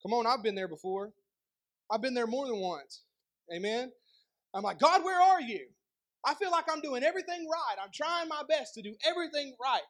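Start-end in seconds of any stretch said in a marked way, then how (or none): 4.8-9.8 raised-pitch complaint to God; acted frustrated questioning; frustrated plea. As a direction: plead in exasperation, voice pushed up.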